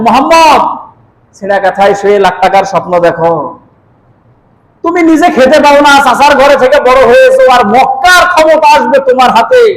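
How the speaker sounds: mock the listener's big dreams as a storyteller would; retold scornful taunt. Key keeper belittling the Prophet's hopes, retold with scorn. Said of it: "আল্লাহ রাসূলকে কটাক্ষ ভাষায়".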